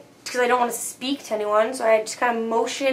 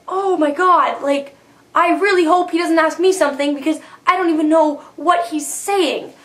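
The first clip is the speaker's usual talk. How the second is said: higher-pitched, mildly panicked inner voice; retold freaking out; 4 semitones higher than usual. Student dreading the teacher's questions, mildly panicked. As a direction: act out a mild classroom panic. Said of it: "freaking out".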